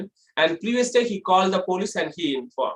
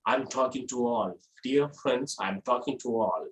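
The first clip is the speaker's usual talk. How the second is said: low, soft bass voice; low pitch; 7 semitones lower, 7 dB quieter than usual. Shown as a demonstration. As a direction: drop into a quiet bass register. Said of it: "Low pitch is just like a bass sound".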